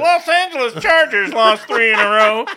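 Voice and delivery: newscaster voice. Pretend. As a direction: hand off to sports like a TV anchor. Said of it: "Anyways, now to sports".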